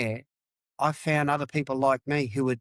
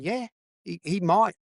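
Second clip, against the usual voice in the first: grim inner thought; 6 semitones higher than usual. Retold or imitated. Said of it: "I'm sitting in my mind going".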